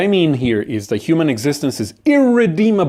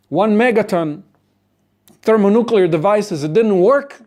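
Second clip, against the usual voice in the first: escalating exasperation; 7 semitones higher than usual. Acted. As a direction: list each failure more frantically. Acted escalating list of failed attempts.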